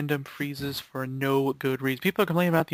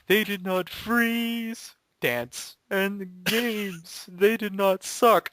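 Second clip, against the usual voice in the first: put-on old man voice; 5 semitones higher, much slower than usual. Mock old-timer praise.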